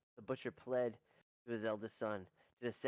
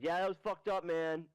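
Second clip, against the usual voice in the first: louder gruff agreement; bartender chimes in; 5 semitones higher, 5 dB louder than usual. Acted. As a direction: blurt it out as the bartender.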